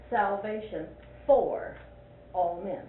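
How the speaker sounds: slow, for held before all men; stress on FOR. Shown as a demonstration. Teacher giving her own reading of the title. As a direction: linger on for. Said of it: "I read it".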